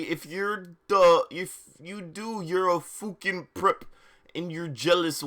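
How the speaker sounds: lightly voiced sulky goth teen; mock whiny author. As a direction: ham up the angry fanfic author's note. Reading author's note in put-on voice.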